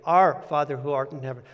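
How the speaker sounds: "Our" hit first and hardest, rest falls away; stress on Our. Shown as a demonstration. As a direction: lean on the word "Our". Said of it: "emphasizing a different word each time".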